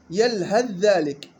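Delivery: يلهث ذلك slowly with ث merged into ذ; full assimilation. Shown as a demonstration. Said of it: "حكم جواز الإدغام الكامل".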